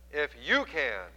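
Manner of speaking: slow, slightly exasperated "If you can."; a touch of weary disbelief; mild exasperation. Retold or imitated. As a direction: let a little exasperation show as you repeat "If you can.". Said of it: "there is exasperation in his voice a little bit".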